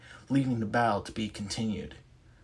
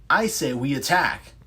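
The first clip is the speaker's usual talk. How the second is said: louder arguing voice pushing to attack; 4 semitones higher, 8 dB louder than usual. Acted. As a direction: shove back, insist on attacking.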